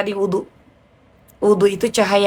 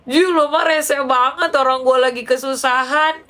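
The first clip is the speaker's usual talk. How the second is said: exasperated friend; 4 semitones higher than usual. Retold or imitated. Friend complains she is being teased.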